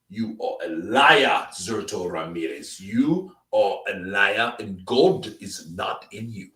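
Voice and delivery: slow, solemn repeated accusation; a hint of Don Charles pronouncing judgment; Don impression. Streamer mimicking Don Charles condemning Zurdo Ramirez, slow and solemn. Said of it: "love the Don impressions".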